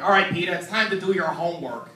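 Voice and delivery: lightly voiced New York accent; a hint of New York dad; New Yorker dad. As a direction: imitate a high-strung New Yorker father. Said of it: "this crazy high-strung New Yorker".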